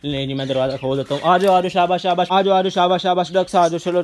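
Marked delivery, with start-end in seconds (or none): 1.2-4.0 calling the ducks. Real, not acted. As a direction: coax the ducks home with a raised call.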